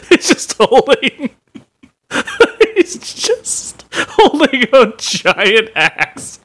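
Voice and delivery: giggling high through the words; laughing. Real, not acted. Cohost cracking up at the axe, laughing while speaking.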